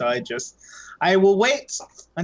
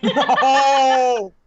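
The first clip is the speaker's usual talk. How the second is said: surprised; 8 semitones higher, 7 dB louder than usual. Real, not acted. Reacts to the jab.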